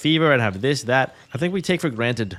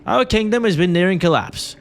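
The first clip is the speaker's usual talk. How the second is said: put-on pretentious British accent; 3 semitones higher, 4 dB louder than usual. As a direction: read it like a snooty British lord, projecting. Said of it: "Let me read this in a pretentious British accent".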